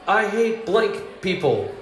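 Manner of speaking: high, drawn-out pretend yell; mock yell. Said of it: "yells at something just terrible".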